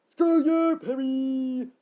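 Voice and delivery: loud, high angry retort; yelling back. Acted. Frank hitting back at Perry, yelling. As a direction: yell it back, stretching the name. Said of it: "Frank yelled back".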